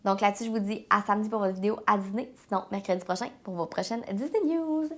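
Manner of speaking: stuffy, congested head-cold voice; blocked nose. Real, not acted. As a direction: talk through a blocked nose. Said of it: "je parle beaucoup du nez aujourd'hui".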